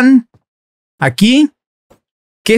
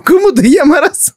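put-on higher, sing-song question to the baby; baby talk; 7 semitones higher than usual. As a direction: coo it up high like to an infant.

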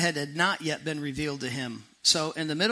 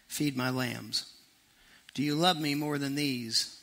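softer, tender questioning; gentle Jesus voice; 2 semitones lower, 4 dB quieter than usual. Retold or imitated. Jesus asks Peter gently if he loves him, softly. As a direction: ask it gently, like a patient friend. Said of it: "Jesus asked Peter".

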